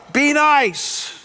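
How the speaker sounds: high, light imitating call of the wife; mock yell. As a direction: call it after him, half laughing. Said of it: "she'll yell".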